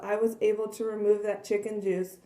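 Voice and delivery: hoarse, strained voice from losing it. Real, not acted. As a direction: talk through a fading, hoarse voice. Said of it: "Sorry, I'm losing my voice here".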